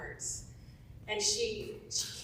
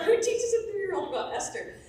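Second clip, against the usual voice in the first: amazed question; 12 semitones higher, 8 dB louder than usual. Retold or imitated. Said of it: "I'm like".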